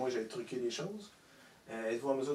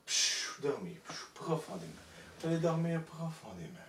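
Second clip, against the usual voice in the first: drawn-out shush, then a command to sleep; hypnotic sleep command; 4 semitones higher than usual. Real, not acted. Hypnotist putting the volunteer back to sleep, hypnotic command. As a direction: send them under with a long hush.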